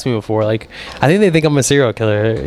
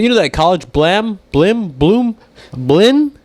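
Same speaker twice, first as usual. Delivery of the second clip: higher, groping mock of mom hunting for a word; imitating mom; 7 semitones higher, much slower than usual. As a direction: play the fumbling mom, pitch climbing.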